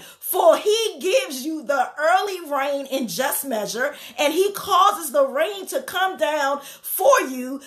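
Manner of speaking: slow, measured scripture reading. Acted. Preacher reading Joel to the congregation, slow and solemn. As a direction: lay each verse down slowly and solemnly.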